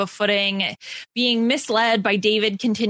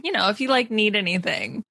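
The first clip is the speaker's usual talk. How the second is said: imitated trailing off. Mocking David's awkward offer of help, trailing off. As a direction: mimic a sentence petering out. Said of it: "trails off".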